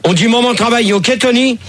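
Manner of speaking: annoyed, insisting on agreement; stern reprimand. Real, not acted. Host reprimands caller for swearing.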